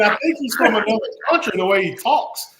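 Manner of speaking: quoting her through laughter; giggling through the words; laughing while quoting. Retold or imitated. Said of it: "she's like".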